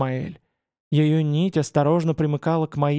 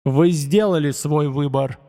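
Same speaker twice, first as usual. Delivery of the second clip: booming arrogant alien overlord. Acted. God condemns the crowd.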